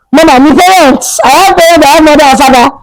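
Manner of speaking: high, excited retold outburst; acted burst of relief; sudden realisation. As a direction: exclaim it as it dawns on you. Retold sudden remembering of parents.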